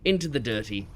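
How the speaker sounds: lightly voiced wildlife narrator; hint of a nature documentary host. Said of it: "perfect example ... natural habitat".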